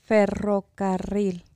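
Ferrocarril said slowly, trying to roll the rr. Shown as a demonstration. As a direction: Ferrocarril careful and slow, rr rolled. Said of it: "do you have trouble rolling your R's".

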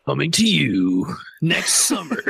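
slow, drawn-out trailer announcer tag line; movie trailer guy voice. Acted. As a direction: slowly sell it like a coming-soon trailer. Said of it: "Maybe you should do the voice".

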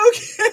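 very high, loud giggling fit; helpless laughter. Real, not acted. Host tries to recover, high uncontrolled laughter. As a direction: laugh hard, squeaking out an okay.

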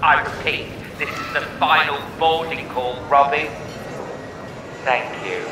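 mock airport tannoy page; flat announcer voice over a PA; flat echoey pa page.

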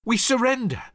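defeated soldiers crying out to surrender; shouting surrender. A narrator's reading. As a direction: call out the surrender over the guns.

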